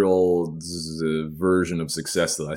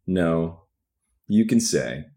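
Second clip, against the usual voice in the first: soft maternal; slower than usual. A narrator's reading. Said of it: "in a soft, deceptively maternal tone".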